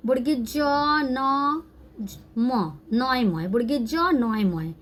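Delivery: slow, drawn-out Bengali spelling; letter-by-letter reading. Shown as a demonstration. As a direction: spell it out slowly, stretching each letter. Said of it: "ये देखिए".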